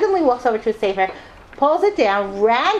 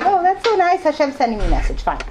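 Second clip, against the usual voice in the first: mock delighted; 5 semitones higher than usual. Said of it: "So I was just like".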